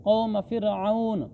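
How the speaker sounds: फ़िरऔन drawn out and closed on n; slow recitation, stop on the n of फ़िरऔन; pausal ending. Shown as a demonstration. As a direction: hold the last syllable of फ़िरऔन, then halt. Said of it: "जब वक्फ करेंगे तो फिर जज़्म आ जाएगी".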